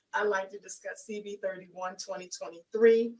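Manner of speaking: slightly hoarse, raspy throat. Real, not acted. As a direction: speak through a raspy voice. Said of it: "I apologize for my raspy voice".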